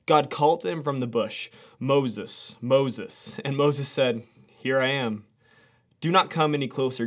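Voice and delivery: steady devotional reading voice; scripture reading. Acted. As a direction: read the passage with reverence. Reads scripture passage aloud.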